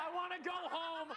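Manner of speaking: loud, frightened whine; scared plea. Real, not acted. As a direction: beg to leave the haunt. Reporter scared entering haunt.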